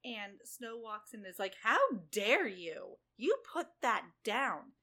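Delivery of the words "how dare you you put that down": slow, loud snooty scolding; a spoiled princess scolding the maid. Retold or imitated. Snow scolding the maid, slow and loud, all snooty. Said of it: "it's all sorts of snooty".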